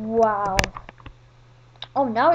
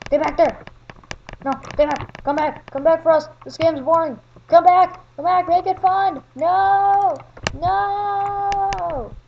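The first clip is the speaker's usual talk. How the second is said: higher, louder pleading shout; yelling; 5 semitones higher, 4 dB louder than usual. Real, not acted. Kid shouting at other players who ran off. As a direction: yell after them to come back.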